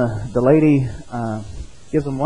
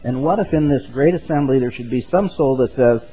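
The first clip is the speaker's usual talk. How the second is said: put-on lightly raised old-style preaching read aloud; sermon reading. Pastor reads Spurgeon's appeal to the congregation, a hint of old-style preaching.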